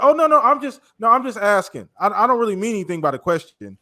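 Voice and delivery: a hint of a defensive reporter; mock innocent journalist. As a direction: play the journalist who's only asking. Mocks journalist's innocent excuse.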